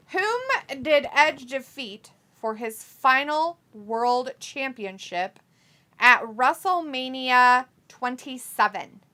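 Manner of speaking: slow, measured trivia question; quiz-host reading. Real, not acted. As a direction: read it out slowly, phrase by phrase.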